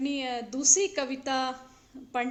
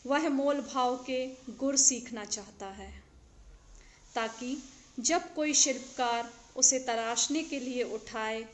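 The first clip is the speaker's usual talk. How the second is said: measured verse reading with pauses between phrases; poetry recitation. Acted. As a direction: recite each line deliberately, letting the endings fall. Recites her second poem.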